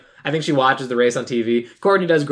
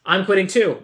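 mildly sarcastic retold retort; 2 semitones higher than usual. Sister back from winning announces she quits, mildly sarcastic. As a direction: imitate a dry comeback, lightly. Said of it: "like, sarcastically".

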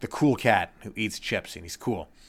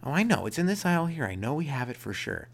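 higher, eager store clerk; high confident clerk voice; 5 semitones higher than usual. Retold or imitated. Clerk insisting to the customer, higher and eager. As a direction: play the sure-of-himself clerk, pitched up. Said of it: "He's like".

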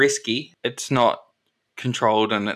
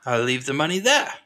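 businesslike colonel. Acted. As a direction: accept the deal as the colonel, pitch easing down. Game master voices Colonel agreeing.

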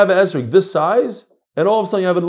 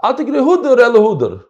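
mock Chassidic Ashkenazi reading with Hudor, said higher; Chassidic Hebrew reading; 7 semitones higher, 6 dB louder than usual. Shown as a demonstration. Teacher mimics how a Chassid reads the verse, Chassidic pronunciation. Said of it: "how Chas is gonna read this".

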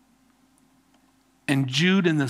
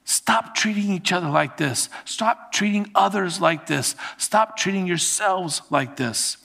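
higher, insistent pleading; pastor pleading; 3 semitones higher than usual. Acted. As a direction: stop it, begging his flock. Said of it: "This is a pastor pleading with his people".

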